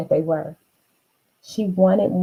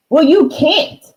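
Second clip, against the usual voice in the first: brother objecting; 9 semitones higher, 6 dB louder than usual. Acted.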